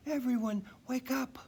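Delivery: high, eager wake-up call; excited call. Acted. Dasher waking her whole family, high and eager. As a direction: rouse the family gladly. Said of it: "Dasher whispered".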